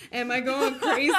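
loud, comic losing-it delivery; mock hysterical question. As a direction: burst out with it through laughter. Repeats question louder, laughing.

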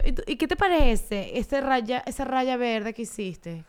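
slow, drawn-out syrupy question; sugary parent. Pretend. Mother mocks asking a ten-month-old her opinion, slow and sugary. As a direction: ask the baby like an overeager therapist. Mocking gentle-parenting talk to baby.

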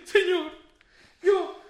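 mock crying witch. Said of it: "se pone a llorar y dice".

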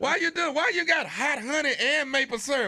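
bewildered laughing protest; laughing mock complaint. The young guy protesting her antics, laughing. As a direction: plead through laughter. Voicing the harassed young lover.

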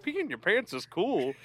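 high-pitched, drawn-out old lady mimicry; slow, high mock old-lady voice; old woman impression. Mimicking old woman from played clip.

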